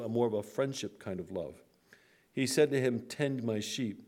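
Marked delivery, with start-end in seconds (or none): 3.0-4.0 "tend" leaned on, slow and soft; "tend" lingered on, gentle and firm; stress on tend. Shown as a demonstration. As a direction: give "tend" slow, quiet weight. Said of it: "That word "tend" there is a very powerful word".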